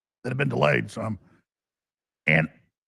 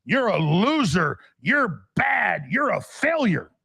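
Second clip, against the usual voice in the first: mock scolding; 3 semitones higher, much slower than usual. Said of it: "He's telling me".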